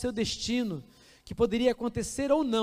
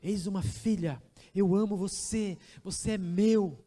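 tender God's voice. Acted. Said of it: "Deus olha pra você e diz".

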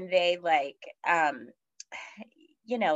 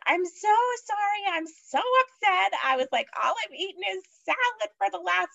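much higher, strained and tearful; retold tearful plea; 12 semitones higher than usual. Mother retelling her call to the provider, higher tearful voice. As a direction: plead through tears, voice pitched way up.

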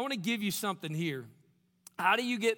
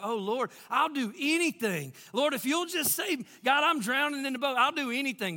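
mock-desperate, higher-pitched plea; desperate bargaining prayer; 5 semitones higher than usual. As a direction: act out pleading with God while drowning. Acts drowning people's desperate promises.

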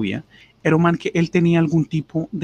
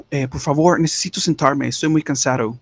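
mock plea; 2 semitones higher, 4 dB louder than usual. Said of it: "y me dijo".

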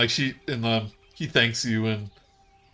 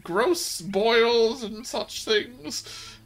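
shrill raised yells, slowing into a drawn-out curse; a severed head screaming vengeance, then dragging out the curse; furious high cursing; 14 semitones higher, slower than usual. Acted. King Gullop's talking head cursing the bullywugs, high furious yell.

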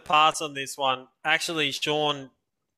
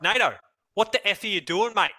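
higher-pitched mock blast at a teammate; angry teammate rant; 6 semitones higher than usual. Canadian teammate berates Nato for a missed kick, higher and exasperated. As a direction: imitate a teammate tearing into you. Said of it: "he would just rip through me".

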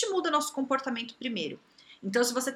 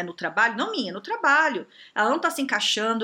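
ordinary delivery

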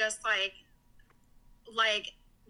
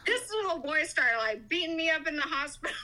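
higher, laughing as you tell it; 5 semitones higher than usual. Real, not acted. Mother recalls her son hitting her in the hospital, laughing. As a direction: let the laugh break into the words.

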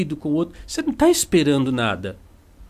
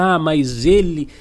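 offended ego. Retold or imitated. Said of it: "aí você pensa".

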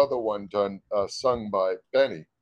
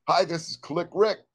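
radio announcer. Acted. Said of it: "another take of radio ID".

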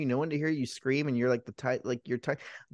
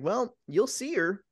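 slow, higher teasing reply; mock villain taunt; 7 semitones higher, slower than usual. Villain answering the frantic man, mock taunting.

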